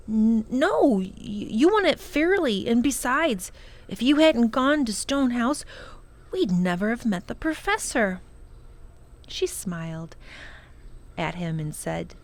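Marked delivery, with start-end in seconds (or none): 0.1-8.2 higher, faster, stumbling; an embarrassed boy rushing his words; stammering boy. Acted.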